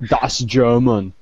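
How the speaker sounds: drawn-out mock German accent. Joking about being ninety percent German, mock German accent. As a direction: put on a slow German accent.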